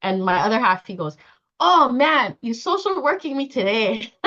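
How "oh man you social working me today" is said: raised pitch, loud opening groan of protest; playfully exasperated, starting loud; mock complaint. Other half accusing her of social working, mock complaint. Voices partner's teasing complaint.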